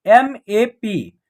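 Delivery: "एस ए डी" letter by letter, slow; spelled out slowly. Shown as a demonstration. Teacher spells the example letter by letter, slowly. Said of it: "next जो example है मैप".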